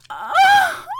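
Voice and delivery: high sudden moaning cry; sharp cry. Acted.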